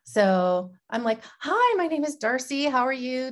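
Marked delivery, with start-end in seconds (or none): 1.4-3.3 brightened, slightly higher greeting; pretend outgoing saleswoman. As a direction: put on a cheerful sales persona. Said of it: "me pretending to be her".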